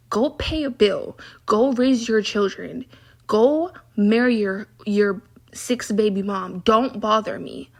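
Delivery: slow, deliberate orders, each one set apart; exasperated telling-off. Retold or imitated. Woman telling grown coworkers to leave her alone, exasperated. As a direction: dismiss them slowly, one command at a time.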